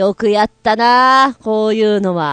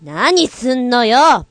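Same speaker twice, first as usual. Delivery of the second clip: slow, drawn-out indignant retort; angry sister; 2 semitones higher, much slower than usual. Acted. Sister being shoved snaps back, slowly and indignant. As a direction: push back at her sister, stretching each word. Sisters shoving each other in skit.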